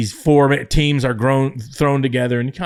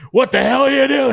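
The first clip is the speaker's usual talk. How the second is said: higher, louder mock yell at the family's car; retold yell; 12 semitones higher, 4 dB louder than usual. Vince yelling through the limo window, high mock yell. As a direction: bark it out like a startled boss. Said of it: "He starts yelling at him".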